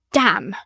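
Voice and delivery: Damn! hit hard and falling; a firm, punched Damn!; bitten-off emphatic Damn!. A narrator's reading. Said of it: "repeated those same British lips emphatically".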